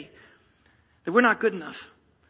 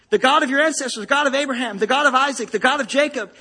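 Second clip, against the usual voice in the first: rising proclamation; 5 dB louder than usual. Acted. Building proclamation of God's names.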